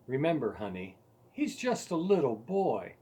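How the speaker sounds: a gentle wife calming her husband; calm, soothing. Retold or imitated. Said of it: "calmly said".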